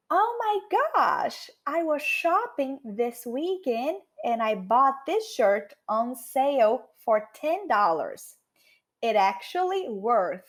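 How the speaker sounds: slow, excited Oh my gosh; excited shopper. Acted. Teacher acting a shopper bragging about a shirt: slow excited gush. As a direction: gush slowly about a bargain. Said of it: "Eu falei".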